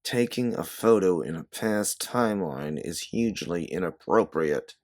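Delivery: hissed through clenched teeth; through gritted teeth. Acted. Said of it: "you tell her through gritted teeth".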